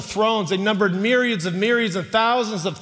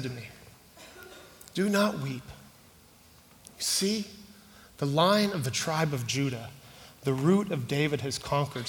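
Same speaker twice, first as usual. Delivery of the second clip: much softer and lower, gentle and grave; soft, tender reading; 6 semitones lower, 6 dB quieter than usual. Acted. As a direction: read it hushed, as if sharing someone's grief. Reads the weeping scene softly.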